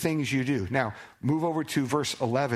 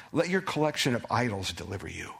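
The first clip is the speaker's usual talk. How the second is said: dry, mocking read of God's words; preacher reads the line with biting sarcasm; 3 semitones lower than usual. Shown as a demonstration. Sarcastic scripture read. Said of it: "here's the irony or the sarcasm".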